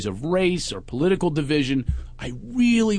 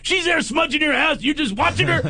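hammed-up appalled psychic; mock outrage; 11 semitones higher than usual. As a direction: scold him for going along. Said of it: "He goes".

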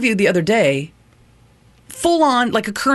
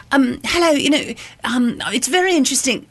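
mock British accent; 5 semitones higher than usual. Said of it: "She was like".

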